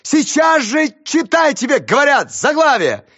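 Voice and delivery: high, loud, slow shout; desperate teacher shouting at pupil. Acted. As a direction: yell the order. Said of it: "закричала бедная Раиса Ивановна".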